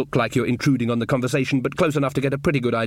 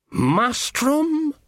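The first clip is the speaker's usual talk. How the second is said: higher, wondering call of her name; surprised Ridcully; 13 semitones higher than usual. Acted. Ridcully meeting Granny again, surprised and high. Granny recognises old love.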